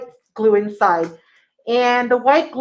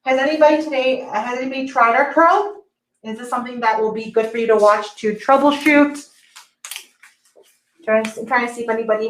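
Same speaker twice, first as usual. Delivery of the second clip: muffled. Real, not acted. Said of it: "sorry if I sound a little bit muffled".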